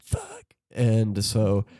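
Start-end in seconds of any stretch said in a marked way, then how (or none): 0.0-0.4 a tiny high, soft "Fuck" of dismay; squeaky hushed curse. Retold or imitated. Waking to a wet bed, a high, soft curse. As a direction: squeak the curse out under the breath. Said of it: "and I was like".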